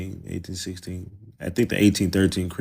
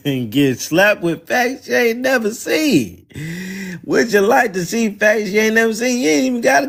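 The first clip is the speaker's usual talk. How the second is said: mock high voice; 10 semitones higher than usual. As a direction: stretch it out high to mock him. Taunting visitor in mock voice.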